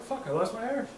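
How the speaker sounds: high, Irish slipping into Scottish; failed Irish accent. Retold or imitated. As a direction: lament it in a botched Irish-turned-Scottish accent. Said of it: "And then I try to do it".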